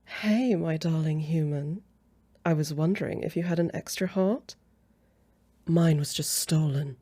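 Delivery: smooth, showy come-on; coy romantic patter; flirty pickup line. Acted. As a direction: demonstrate how to flirt. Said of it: "I'll show you how it's done".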